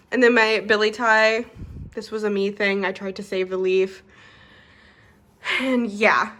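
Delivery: shallow, winded breathing. Real, not acted. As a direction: speak a little short of breath. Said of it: "sorry, I'm out of breath".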